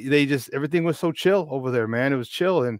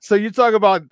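laughing; 7 semitones higher, 6 dB louder than usual. Real, not acted. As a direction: chuckle while setting up the punchline. Laughing about topless beaches.

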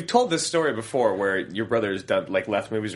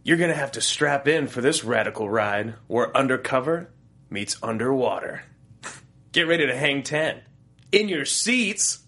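movie trailer voice. Acted. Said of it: "I'm just gonna do a stupid voice".

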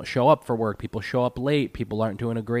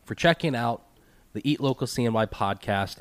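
blocked nose; 4 semitones higher than usual. Real, not acted. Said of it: "forgive this nasally, nasally voice".

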